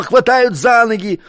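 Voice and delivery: mock yell. A narrator's reading. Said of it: "орал".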